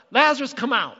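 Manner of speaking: commanding shout, high and loud; Jesus. Retold or imitated. Preacher acts out Jesus calling the dead man out, commanding shout. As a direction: call a man out of his tomb. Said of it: "then he shouts".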